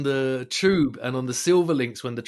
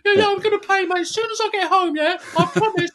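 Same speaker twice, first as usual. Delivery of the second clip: high-pitched, louder put-on pleading; mock pleading promise; 4 dB louder than usual. Fare dodger to ticket inspector, high mock pleading. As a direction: squeal out an over-eager fake promise.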